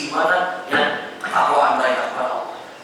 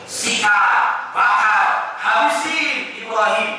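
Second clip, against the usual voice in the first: raised, punchy calls to attack; mob shouting; 5 semitones higher, much slower than usual. Acted. Idol worshippers turning to violence against Ibrahim, shouting. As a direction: shout it like an angry mob's chant. Acts the violent mob's cries.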